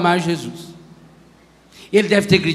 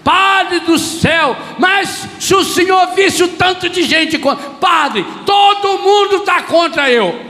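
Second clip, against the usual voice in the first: complaining parishioner; 9 semitones higher than usual. Retold or imitated. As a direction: wail at the priest in self-pity.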